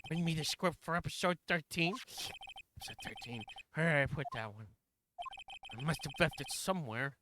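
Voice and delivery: lightly voiced muddled director; flustered director. Director hunts for the script he mislaid, mildly flustered. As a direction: fret to yourself as a director, lightly put on.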